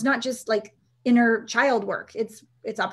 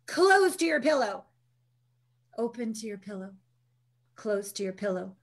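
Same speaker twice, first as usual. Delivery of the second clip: guiding instruction. Retold or imitated. Coach guiding exercise.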